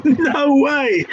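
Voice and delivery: surprised. Real, not acted. Surprised at the quiz answer.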